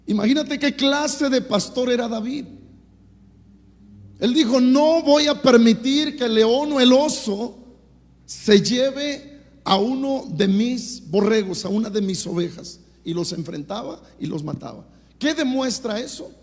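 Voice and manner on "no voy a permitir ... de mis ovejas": slow, emphatic declaration, louder at the start; defiant vow. Acted. David vows not to let lion or bear take his sheep, defiant. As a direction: declare it firmly, drawing out the words.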